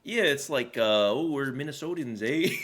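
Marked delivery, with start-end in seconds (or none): 1.1-2.5 joking Minnesotan accent, laugh at the end; hammed-up Minnesotan accent. Shown as a demonstration. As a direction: do a playful Minnesota accent, almost Canadian. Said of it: "That sounds like the Canadian accent".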